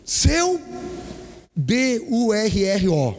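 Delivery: yelling a spelled-out insult at a driver; big yell. Retold or imitated. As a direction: bellow each letter slowly. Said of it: "eu dei um gritão, irmão, enchi o pulmão".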